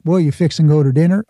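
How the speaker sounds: mock Southern accent. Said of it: "I'm not".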